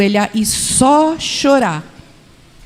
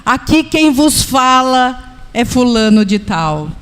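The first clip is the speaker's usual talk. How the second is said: stiff formal address; 2 semitones higher than usual. Retold or imitated. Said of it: "Ele fala".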